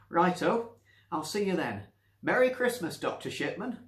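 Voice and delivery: high, loud sing-song farewell; cheery old Nancy. Acted. Nancy cheerily seeing the doctor out. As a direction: wave him off brightly.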